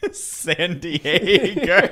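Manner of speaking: put-on very slow, laughing Boston accent. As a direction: drawl San Diego in a Boston accent. Boston accent city name.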